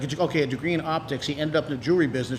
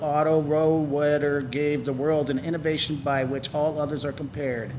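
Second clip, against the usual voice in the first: robot voice; slower than usual. Real, not acted. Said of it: "You sound kinda like an A I robot when you read that".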